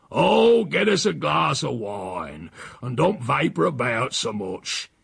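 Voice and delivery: put-on a touch of an old man's grumble, the wine request slow; lightly voiced cantankerous countryman; grumpy old Silas. Silas to his housekeeper, demanding wine, mildly grumbling.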